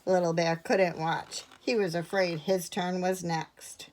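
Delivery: measured narration, slowing and softening at the end; hushed close to a story moment; story reading. A narrator's reading. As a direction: read a picture book to children. Reads a picture book to children.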